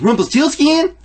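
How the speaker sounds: high, loud shouted "Rumpelstiltskin!"; Adam Sandler shout. Retold or imitated. Retelling Big Daddy to friends, loud high shout. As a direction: bellow the name like the movie. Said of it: "And he goes".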